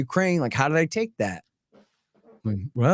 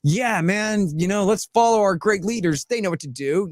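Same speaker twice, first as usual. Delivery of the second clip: higher, sarcastic true-believer voice; mock loyal follower; 5 semitones higher than usual. Mocking gullible voters to his co-host, sarcastic and raised. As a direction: ham up a naive follower praising leaders. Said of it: "people look at that and go".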